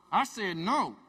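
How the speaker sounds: clenched, loud no; through her teeth. Retold or imitated. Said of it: "She starts talking through her teeth".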